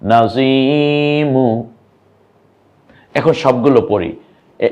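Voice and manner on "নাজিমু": শাহিদা stretched syllable by syllable, each vowel held long; slow drawn-out reading. Shown as a demonstration. Teacher to learners, showing the joined word, very slow. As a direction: draw out শাহিদা slowly and clearly. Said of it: "মকে রস্যুকার দিয়ে মু".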